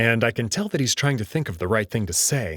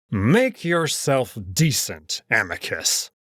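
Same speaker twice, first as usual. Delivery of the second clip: shaking with fury; slower than usual. Acted. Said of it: "the old wolf actually shaking with fury".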